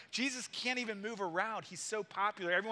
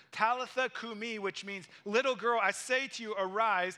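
proclaimed command; 3 semitones higher, 4 dB louder than usual. Retold or imitated. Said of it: "he said to her".

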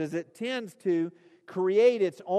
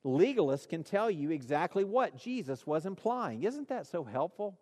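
soft, dry tongue-in-cheek delivery; mock-sincere, dropped in quietly; deadpan joke; 5 dB quieter than usual. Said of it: "That was a joke".

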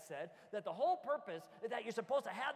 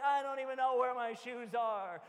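put-on whiny kid; 7 dB louder than usual. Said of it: "they're like".

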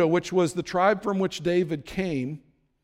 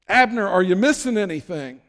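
mocking call; 2 semitones higher, 5 dB louder than usual. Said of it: "he cries out".

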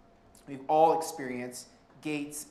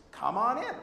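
high, bright come on, mimicking the gate worker; high cheery come on from the gate attendant; cheery wave-in; 8 semitones higher, 5 dB louder than usual. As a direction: call them through with a big friendly lilt. Gate worker waving them in.

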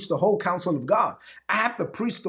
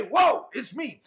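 higher, glad whoa; joyful exclaim; 5 semitones higher, slower than usual. Shown as a demonstration. Preacher telling sufferers what to say instead, glad exclaim. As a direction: lift it up with gladness.

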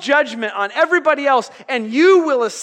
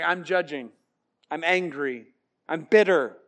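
mock bitter son; 6 semitones lower, 4 dB quieter than usual. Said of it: "he's like".

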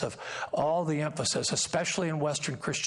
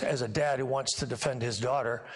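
ordinary talk

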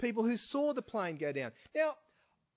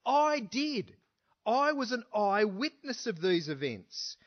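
emphatic claim; 3 semitones higher than usual. Retold or imitated. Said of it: "He's saying".

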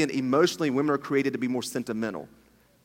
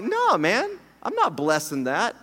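mock voice of God; 6 semitones higher, slower than usual. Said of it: "God's like".

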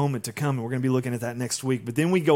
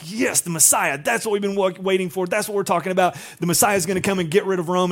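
higher, eager acted chorus; mock excited disciples; 5 semitones higher, faster than usual. Disciples welcoming the Messiah they waited for, excited. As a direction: play the disciples lightly thrilled.

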